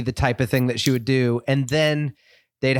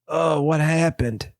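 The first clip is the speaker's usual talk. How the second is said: 1 innocent Charlotte; 3 semitones higher, slower than usual. Retold or imitated. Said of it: "She's like".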